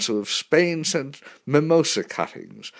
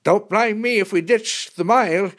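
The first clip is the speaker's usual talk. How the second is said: high, raised yell; pitched-up shout over the engine; 10 semitones higher, 4 dB louder than usual. A narrator's reading. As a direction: yell it back from the cockpit. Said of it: "he yelled".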